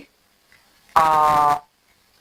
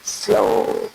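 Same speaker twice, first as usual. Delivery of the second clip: slow demo; much slower than usual. Shown as a demonstration. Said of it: "slow like that".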